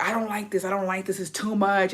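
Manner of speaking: softly voiced reluctant wife; retold protest, kept small and soft. Wife balking at the orgy party to husband, quiet reluctant protest.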